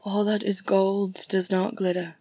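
measured verse, slightly lifted; poem recitation. Acted. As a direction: recite each line with weight.

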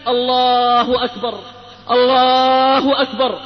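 slow, long-held call to prayer; muezzin's call. Retold or imitated. Muezzin calling people to dawn prayer, slow drawn-out call. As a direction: imitate a muezzin, stretching the words out. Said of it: "وإذا بالمنادي ينادي".

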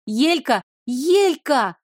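hoarse calling, rising. Acted. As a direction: call out hoarsely for her. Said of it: "позвала охрипшим голосом".

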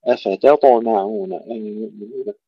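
أفتطمعون with only ط thick and echoed; heavy bounced ta. Shown as a demonstration. Teacher modelling the verse, bounced ط in أفتطمعون. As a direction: keep other letters light around ط in أفتطمعون. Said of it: "نفخم الطاء فقط مع القلقلة".

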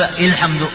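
الحمد said with an i vowel at the start, ilḥamdu; the mistake: start الحمد on i; wrong ilḥamdu. Shown as a demonstration. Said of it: "هذا خطأ".

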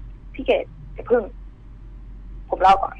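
put-on hushed urgent boy's voice; boy interrupting Ked, hushed and urgent. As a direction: cut her off in a rush. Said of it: "เขาพูดขึ้นว่า".

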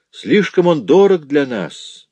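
high, slow and bitter; bitterly dismissing the law as unaffordable; bitter remark. Acted. Жанна to her listener about the law, bitter. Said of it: "с горечью произнесла Жанна".

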